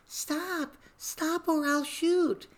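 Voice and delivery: high, squeaky would-be cop order; a tiny trainee cop trying to sound tough; Police Academy cop impression. Trainee cop ordering a suspect, high squeaky command. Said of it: "the movie Police Academy".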